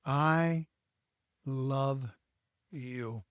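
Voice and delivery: soft, low "I love you", fading to almost nothing; tender "I love you". Shown as a demonstration. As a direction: say it slowly and gently. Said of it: "say those words with the idea that this is charming".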